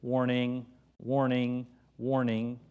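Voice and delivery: lightly flat robotic repetition; a hint of a droning machine voice; mock robot saying warning; monotone robot. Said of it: "in this monotone voice".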